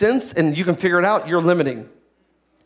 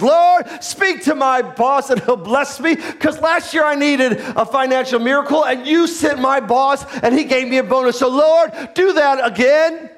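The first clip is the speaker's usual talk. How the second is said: mock greedy prayer; 3 semitones higher than usual. Churchgoer begging God for a bonus, mock pleading. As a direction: pray for a bonus like a spoiled child.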